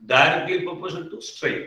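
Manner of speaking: teacher dictating a definition to copy down; very slow dictation. Shown as a demonstration. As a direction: spell out the rule slowly, word by word. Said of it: "അതാണ്".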